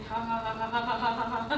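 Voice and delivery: fake laugh. Shown as a demonstration. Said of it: "Like, if I was laughing".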